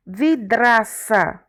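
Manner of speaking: slow, separated syllables in "broto". Shown as a demonstration. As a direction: break the word into its syllables. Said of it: "essas palavras estão separadas". (sílaba por sílaba, devagar)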